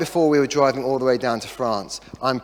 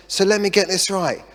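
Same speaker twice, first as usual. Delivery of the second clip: incredulous wife; 4 semitones higher than usual. Retold or imitated. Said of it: "She says".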